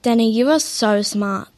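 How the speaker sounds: dry sarcastic praise; a fake compliment, deadpan. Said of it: "Was that sarcasm?".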